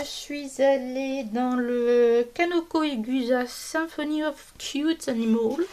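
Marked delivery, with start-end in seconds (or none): 2.3-5.6 French speaker putting on an English accent; showy English accent. Shown as a demonstration. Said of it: "Vous avez vu mon, mon accent".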